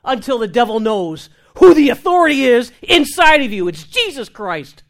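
fiery pulpit exhortation; full-force preaching. Real, not acted. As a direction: preach it hard to the congregation. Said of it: "Now you're preaching".

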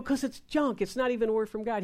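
a touch of huffy protest; retold annoyance. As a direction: answer back in mild irritation. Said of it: "'cause I'm mad".

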